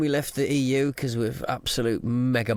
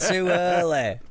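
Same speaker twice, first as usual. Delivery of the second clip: higher, slow mock Geordie accent; Northern English accent; 5 semitones higher, slower than usual. Mocking his co-host in a silly Geordie accent. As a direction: ham up a Newcastle lad. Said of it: "silly Nor-, Newcastle Sunderland voice".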